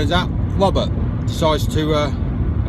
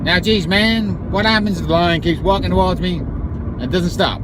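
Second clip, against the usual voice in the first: put-on American accent; 3 semitones higher than usual. Applicant asks about an advancing lion, American accent. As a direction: worry aloud in a mock American accent. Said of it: "that's the part of the American accent".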